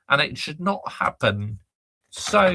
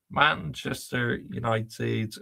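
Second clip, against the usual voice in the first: slow reverent reading; 6 semitones lower, 5 dB quieter, slower than usual. Shown as a demonstration. Fan showing viewers the old badge, slow and reverent. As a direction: read the old club name slowly, with reverence. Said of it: "Let me show you the old school badge".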